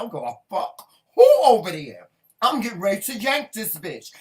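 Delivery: mock yell. Retold store fight, yelling.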